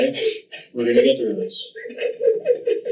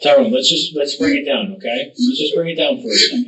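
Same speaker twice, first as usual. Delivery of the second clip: calming; 3 semitones higher than usual. Real, not acted. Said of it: "tries his best to calm him down".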